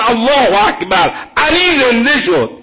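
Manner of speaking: crowd cry. Retold or imitated. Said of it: "چنان فریاد زد".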